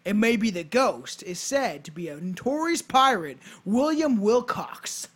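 storyteller read with punched key words; measured, emphatic read-aloud; scripted narration. Acted. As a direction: present it like a podcast history script. Reads a scripted ghost tale.

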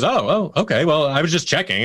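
imitating a flustered retreat; sheepish backing down. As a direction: back off after being yelled at. Senior backing down, retold.

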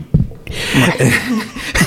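bursting into high laughter. Real, not acted. Laughs at own quote.

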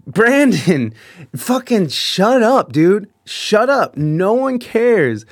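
slow, emphatic telling-off; retold fed-up order to quit, each word leaned on; drawn-out, exasperated rebuke; exasperated scolding. Retelling himself scolding a rowdy drinker.

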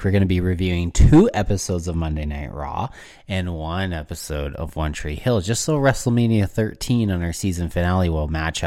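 tipsy slurred talk. Real, not acted. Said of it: "Fuck, you're so drunk".

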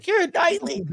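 teasing constipated impression; mock constipated voice. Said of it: "you sound constipated when you said that".

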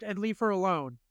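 high, polite but firm; telling the attacker he must leave the woman alone; nervous refusal. Retold or imitated. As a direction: stand your ground nervously. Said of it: "And I go".

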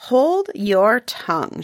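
slow menacing command; slow stern stepmother. Acted. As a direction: spell it out slowly, coldly. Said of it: "she gnashes her teeth".

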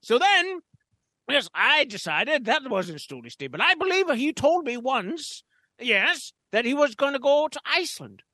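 lightly voiced pompous gent; a hint of a stuffy gentleman; pompous storyteller. Holds a pompous character voice.

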